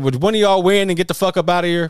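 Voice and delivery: yelling them out of the yard, half-joking; retold yell at raccoons. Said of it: "I said".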